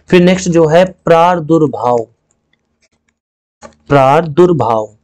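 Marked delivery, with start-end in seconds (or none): 3.6-4.9 slow demo word. Shown as a demonstration. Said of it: "ये प्रादुर्भाव नहीं होता है".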